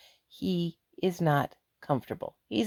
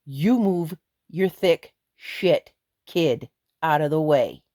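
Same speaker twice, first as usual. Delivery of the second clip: retold threat; slower than usual. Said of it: "You're gonna get the".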